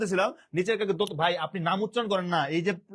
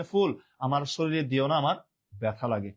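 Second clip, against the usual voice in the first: poem recital; 3 semitones lower than usual. Shown as a demonstration. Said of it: "একটা কবিতা লেখে".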